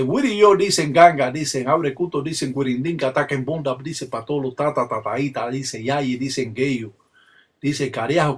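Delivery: rapid-fire ritual recitation, phrase after phrase; ritual invocation. Shown as a demonstration. Palero demonstrating primitive religious forms, ritual invocation. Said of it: "estas énfasis que se utilizan en la religión".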